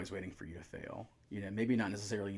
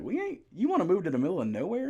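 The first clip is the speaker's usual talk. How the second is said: higher and louder, laughing disbelief; laughing mock outrage; 10 semitones higher, 9 dB louder than usual. Wife balking at the move, laughing indignant. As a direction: scoff through laughter at the idea. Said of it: "She's like".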